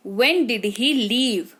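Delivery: very slow, clear teaching read; slow model sentence. Shown as a demonstration. Teacher modelling sentence slowly for the class. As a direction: say When did he leave? word by word, slowly. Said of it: "teacher repeats model sentence".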